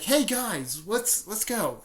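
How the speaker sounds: lightly acted, upbeat summons; retold rallying call. Rallying teammates in retold story.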